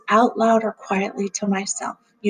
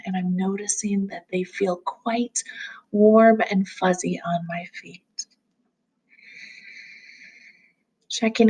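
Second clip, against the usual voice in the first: calm grounding exercise. Acted. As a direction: gently guide them through noticing.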